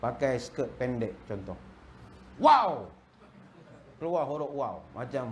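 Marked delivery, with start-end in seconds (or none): 2.4-2.9 loud leering wow; a man's eyes popping at a passing girl; ogling wow. Retold or imitated. Man ogling girl in skirt. (wow yang kuat dan gatal)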